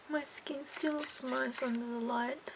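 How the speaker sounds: slow hushed whisper. Real, not acted. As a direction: whisper so no one wakes. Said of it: "I have to whisper".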